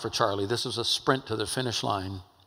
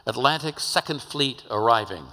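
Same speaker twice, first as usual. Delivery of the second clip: ship loudspeaker call; 3 semitones higher than usual. Retold or imitated. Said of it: "they blow that whistle and it says".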